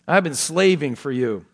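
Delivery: touch of resentment, loud on slaving; mildly aggrieved, acting the slighted son; bitter complaint. Elder son complains of slaving for his father, mildly bitter. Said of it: "Boy, is there bitterness there or what?".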